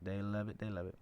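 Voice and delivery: lightly put-on Southern accent, mocking; a hint of a Southern drawl, speaking for Southerners. Voicing Southern people to his listeners, light mock Southern accent. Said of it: "I don't actually talk like that normally".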